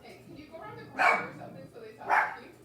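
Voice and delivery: high, fast call from across the yard; calling out far off. Real, not acted. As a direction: shout it quickly to someone outside. Calling out to husband outside.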